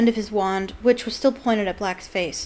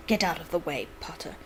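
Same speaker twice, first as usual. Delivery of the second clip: snarled. Acted. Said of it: "snarled Snape".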